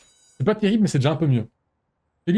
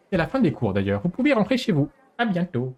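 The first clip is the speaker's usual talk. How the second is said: headmistress voice; 4 semitones higher than usual. Acted. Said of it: "je vais pas faire une voix de meuf".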